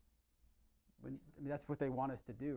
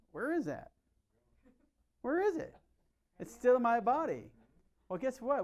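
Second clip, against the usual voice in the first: excited, much higher and louder questioning; emphatic rising; 9 semitones higher, 7 dB louder than usual. Real, not acted. Doctor pressing his patients, excited and much higher pitched. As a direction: hammer home where it all goes.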